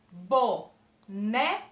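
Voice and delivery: boneca very slow, each syllable opened wide; mouth opening per syllable. Shown as a demonstration. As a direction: open the mouth on each part of boneca, slowly. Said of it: "Eu abri minha boquinha, ó".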